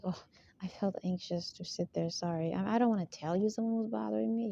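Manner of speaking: hesitant, put-on apology, mildly mocking; mock manipulative complainer. Speaker imitates an accuser claiming to be bothered, mock manipulative. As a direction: lightly mimic someone feigning anxious reluctance. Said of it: "talks like that. ... so irritating. ... Very manipulative".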